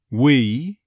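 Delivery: "We" as "wuh-EE"; slight on-glide. Shown as a demonstration. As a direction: ease onto the E in "We". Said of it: "That slight on glide".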